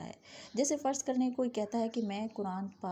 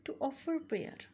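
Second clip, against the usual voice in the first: slow, careful, higher model phrase; 5 semitones higher, 3 dB quieter, much slower than usual. Shown as a demonstration. Teacher modelling the English phrase slowly. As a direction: lift it and say it slowly. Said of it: "नमाज अदा करना".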